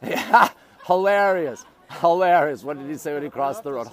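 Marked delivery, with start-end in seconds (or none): 0.0-2.6 chuckling at a viewer's joke, stretched slowly; laughing. Real, not acted. Streamer reacts to a funny comment, laughing. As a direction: laugh it out, slow and drawn.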